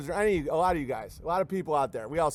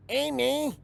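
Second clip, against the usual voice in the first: much higher mock Mexican accent; Mexican accent greeting; 9 semitones higher than usual. Immigrant worker greeting his employer, mock accent. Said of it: "this dude who's like".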